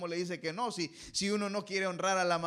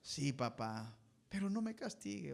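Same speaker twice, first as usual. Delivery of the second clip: put-on low, soft pleading child; meek plea; 7 semitones lower, 8 dB quieter than usual. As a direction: beg not to be punished. Hijo suplicando. (hijo suplicando en voz baja)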